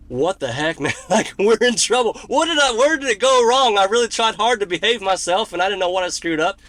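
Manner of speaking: playing up the dread of being in trouble; mock panic. Called back by Phil's people, mock panicked and loud.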